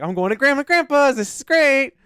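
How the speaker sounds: high, eager happy voice; bubbly puppy glee; dog thrilled about visiting grandparents, excited. Pretend. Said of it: "He's like".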